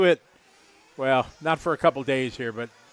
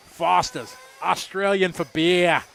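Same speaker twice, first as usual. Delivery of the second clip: imitating the ad; 3 semitones higher, 4 dB louder, slower than usual. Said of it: "you know, on the ad".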